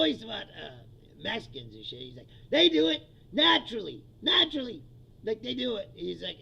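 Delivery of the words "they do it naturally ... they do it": mocking Trump. Quoting Trump on Mexicans.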